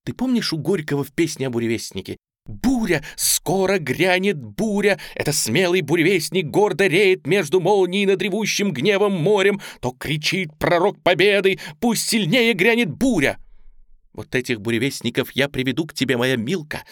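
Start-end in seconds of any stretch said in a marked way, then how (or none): 2.5-13.4 loud ringing poem recital; loud declamation. A narrator's reading. Girl shouting Gorky's poem to stir her aunt, loud. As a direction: proclaim the storm at full voice.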